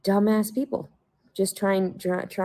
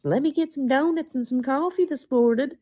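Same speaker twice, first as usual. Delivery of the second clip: mock cop voice; 8 semitones higher than usual. Mocking officer wanting donuts.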